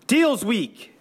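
eager group shout, pitched high; excited crowd answering the boss. A narrator's reading. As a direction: call it out together like a cheer. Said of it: "everyone shouted".

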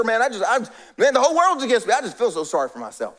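whiny self-pity. Retold or imitated. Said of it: "Self-pity".

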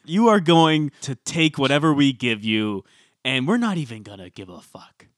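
mock the audience, leaning on each phrase; mock contempt. Co-host voicing producers addressing viewers, mock contempt. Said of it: "the contempt for the viewers".

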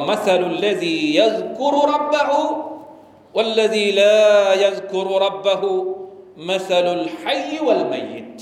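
lightly chanted Arabic quote, the last words slowed right down; Arabic hadith recitation. Acted. Imam quoting the Prophet's words, lightly chanted Arabic. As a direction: intone the hadith with a gentle tune.

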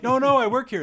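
high, loud mock protest; high protesting yelp. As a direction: squeal that you work here. Protesting on set.

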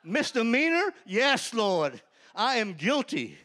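high, loud, laughing delight; can't believe his luck, laughing it out; laughing joy. Retold or imitated. Joyful disbelief, laughing plea.

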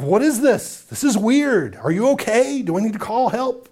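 confused coworker reacting to an apology; baffled. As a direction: play the bewildered friend. Unbeliever baffled by a confession.

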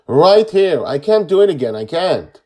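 high, loud tearful protest; an overwhelmed child wailing; crying hard. A narrator's reading. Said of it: "he cries even harder".

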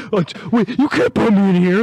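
suddenly scared, begging the guards; panicked protest. Retold or imitated. New prisoner protesting to the guards, high panicked plea. New inmate sees bear cellmate.

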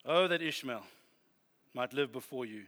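Abraham pleading. Shown as a demonstration. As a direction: beg gently with pauses. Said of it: "and Abraham's going".

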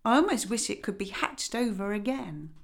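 lightly voiced haughty old duck; a hint of condescension; mildly grand lady duck.

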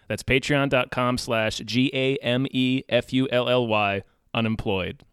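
letters spelled out one by one, G A M E F U L L Y; spelling it out. Shown as a demonstration. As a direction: spell out G A M E F U L L Y unemployed. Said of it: "which is spelled like it sounds".

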